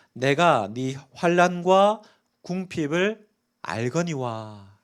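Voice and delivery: solemn scripture reading. Shown as a demonstration. Reading the scripture verse aloud.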